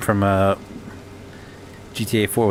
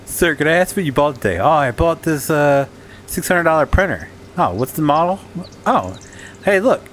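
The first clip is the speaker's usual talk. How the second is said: higher, bouncy pitch; playful salesman voice; 6 semitones higher than usual. Pretend. Acts out salesman and customer.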